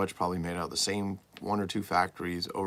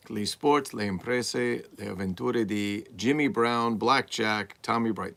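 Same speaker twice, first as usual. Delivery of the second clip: reading the Italian card text in a mock Spanish accent, louder; hammy Spanish-accented read of the box names; 2 semitones higher, 3 dB louder, slower than usual. Shown as a demonstration. Collector reads the Italian box text to viewers in a mock Spanish accent. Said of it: "That was a Spanish accent".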